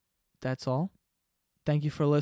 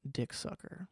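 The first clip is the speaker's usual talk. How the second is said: whispered; 10 dB quieter than usual. Acted. Crude joke whispered aside.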